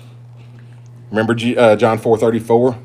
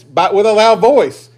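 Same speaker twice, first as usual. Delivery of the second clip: "loud voice" raised high and loud; emphatic; 8 semitones higher, 5 dB louder, slower than usual. Shown as a demonstration. Preacher underlines the verse's added words, emphatic. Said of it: "Further emphasized by".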